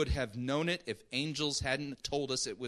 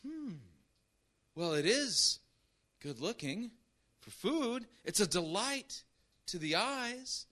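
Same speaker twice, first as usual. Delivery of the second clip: lightly voiced, higher dreamy musing; mock musing Eve; 7 semitones higher than usual. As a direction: savor the fruit like Eve tempted. Eve musing over the fruit.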